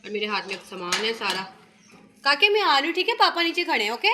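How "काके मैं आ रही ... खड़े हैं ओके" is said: raised, higher voice calling upstairs. Real, not acted. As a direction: call up to the little one. Mother calls out to child upstairs. (बच्चे को ऊँची आवाज़ में पुकारना)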